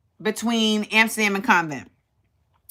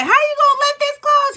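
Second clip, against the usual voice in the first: much higher, disbelieving outcry; incredulous. Retold or imitated. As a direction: ask it in shocked disbelief. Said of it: "and I was like".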